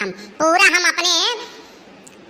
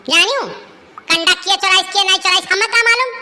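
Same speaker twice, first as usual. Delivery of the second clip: defiant retort; 3 semitones higher, 3 dB louder, faster than usual. Acted. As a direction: snap back defiantly. Quarrel, defiant denial.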